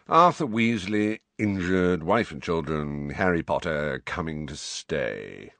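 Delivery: reciting the message in a bored drone; bored recital. Acted. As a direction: tick off the facts, utterly uninterested. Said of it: "recited Phineas in a bored voice".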